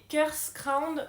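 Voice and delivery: English accent. Shown as a demonstration. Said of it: "avec mon accent absolument sublime".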